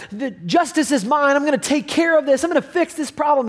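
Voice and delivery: mock-heated determination; self-righteous anger. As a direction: act out his own vengeful resolve. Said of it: "I'm angry".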